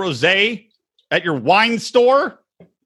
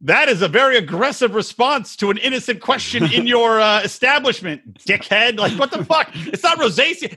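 rising mock outrage at the shop owner; indignant retort; 5 semitones higher than usual. Retelling a rant at the wine shop owner, mock outraged. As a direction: escalate into an offended rant. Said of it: "I was like".

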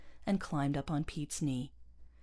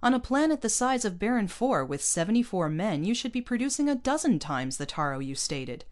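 impatient scolding; 6 semitones higher, 5 dB louder than usual. A narrator's reading. Captain scolds colonist over low output.

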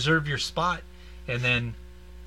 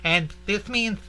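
laughing, acting out horse signs; 7 semitones higher than usual. Imitating horse sign language.

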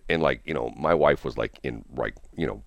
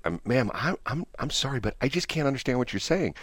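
retold apology; 6 semitones higher, 7 dB quieter than usual. Politely apologizing to nurse, retold.

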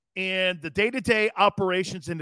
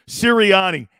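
a hint of the Philly radio host, loud and drawn; name him like Angelo Cataldi would; 7 dB louder than usual. Host hams the coach's name like Angelo Cataldi. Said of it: "Angelo Cataldi voice".

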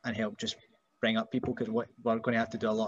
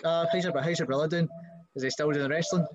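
lightly voiced chirpy stranger, higher; nosy acquaintance; 5 semitones higher than usual. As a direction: ask brightly, a bit nosy. Stranger asking brother.

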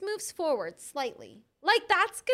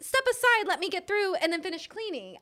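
retold exasperation; 6 semitones higher than usual. Retelling her exasperated reply to worker.

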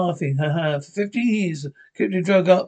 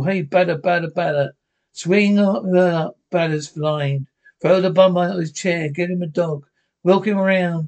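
rowdy ballpark heckling; heckler shouting. Acted. Heckling the batter.

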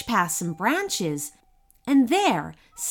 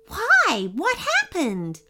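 higher-pitched, anxious sympathy; full of concern; 9 semitones higher, slower than usual. A narrator's reading. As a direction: ask with gentle worry. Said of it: "her voice full of concern".

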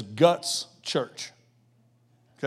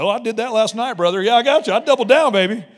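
loud, higher brag to a buddy; cocky poker player; 3 semitones higher, 6 dB louder than usual. Retold or imitated. Poker player bragging to a buddy, loud and cocky. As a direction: puff up like a boasting gambler. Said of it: "You're like".

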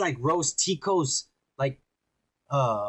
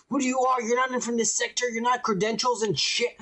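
higher, fast, mocking guard voice; 6 semitones higher than usual. Friend mocking the skinny guard's challenge, high and fast. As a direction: squeak out the guard's challenge like a jittery crackhead. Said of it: "telling him, like".

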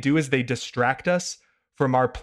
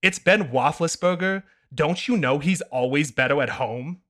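put-on no fun kid voice. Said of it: "no fun kid voice".

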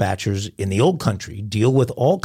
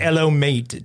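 Aussie accent; 2 semitones higher, slower than usual. Shown as a demonstration. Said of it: "doesn't, doesn't work for me".

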